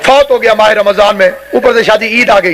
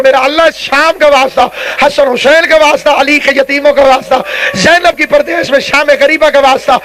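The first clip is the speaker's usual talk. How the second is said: impassioned supplication before a congregation; rolling majlis invocation; fervent preacher's prayer. Real, not acted. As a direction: call down blessings in a steady, urgent flow.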